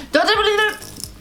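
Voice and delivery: high mock yell. Real, not acted. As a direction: yelp it out in play.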